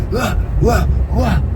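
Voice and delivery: high mocking wah wah; mocking the kid's whining; mock crying. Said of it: "that's when he starts".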